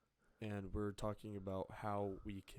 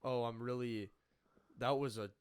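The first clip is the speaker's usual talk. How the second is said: sarcastic; 4 dB louder than usual. Shown as a demonstration. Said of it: "You're being sarcastic".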